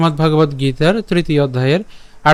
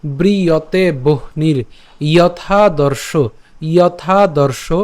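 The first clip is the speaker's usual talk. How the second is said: slow, careful verse recital; slow recitation; slower than usual. Shown as a demonstration. Teacher repeating the verse from the start, slowly. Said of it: "আমি আবার প্রথম থেকে বলছি".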